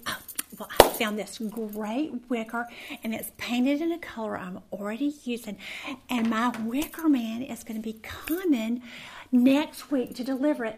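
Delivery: eager, bubbly chatter about the wicker, rising toward the end; innocently excited. Retold or imitated. Telling neighbors about her new wicker, innocently excited. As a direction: gush about your new wicker like it's big news. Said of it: "I was just so innocently excited about".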